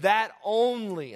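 "only" drawn out and firm; slow, emphatic weight on the word "only"; stress on ONLY. Real, not acted. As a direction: lean hard and slow on "only". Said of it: "I emphasize the word only".

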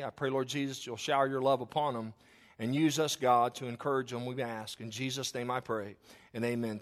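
reverent spoken prayer to God. Acted. Pastor praying over the grieving family, reverent. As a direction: pray it for the family.

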